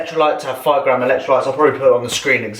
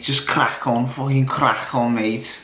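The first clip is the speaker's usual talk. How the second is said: mock Scouser accent; 4 dB quieter, slower than usual. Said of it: "I'm pretty good with a Scouser accent".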